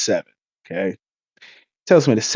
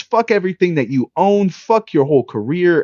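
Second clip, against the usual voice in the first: real angry rant; 6 semitones higher than usual. Real, not acted. Ranting at the player who insulted him.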